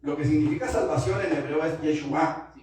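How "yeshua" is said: "Yeshua" with the accent on the last A; "Yeshua" said as yeshu-A; stress on final A. Shown as a demonstration. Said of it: "con acento en la A".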